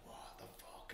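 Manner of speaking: breathless whisper of disbelief; hushed astonished whisper. Retold or imitated. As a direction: whisper it under your breath, stunned. Tripping, whispering in the dark.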